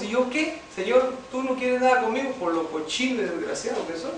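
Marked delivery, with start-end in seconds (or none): 0.0-2.3 retold grievance in a higher voice; reproachful complaint. Left-out man complains to God, reproachful and higher. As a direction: act out a high-pitched complaint to God. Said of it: "Le decía y le reclamaba".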